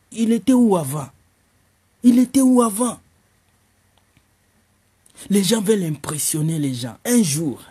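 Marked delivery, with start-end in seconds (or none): 0.1-3.0 indignant retort. Acted. Girl retorts twice, louder.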